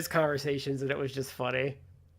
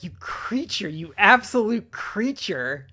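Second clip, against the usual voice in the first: drawn-out theatrical scolding; mock insult; 4 semitones higher, slower than usual. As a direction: imitate a host relishing the insult. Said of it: "he calls them".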